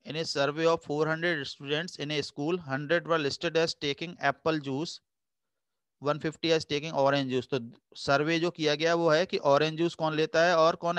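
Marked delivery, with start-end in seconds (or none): 0.1-7.5 very slow, even dictation of the problem; reading the question aloud. Acted. Teacher reading the survey question to the class, slow and even. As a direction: read it out word by word so students can follow.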